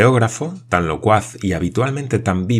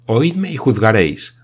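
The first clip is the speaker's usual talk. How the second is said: eager insistence; 4 semitones higher, 5 dB louder than usual. Acted. Paganel demands a hearing.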